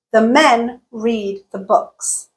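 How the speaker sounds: slow even beats on MEN, READ, BOOKS, each "the" squashed; stress-timed rhythm. Shown as a demonstration. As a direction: reduce both "the", keep men, read, books on the beat. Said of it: "Listen to the duration of each utterance".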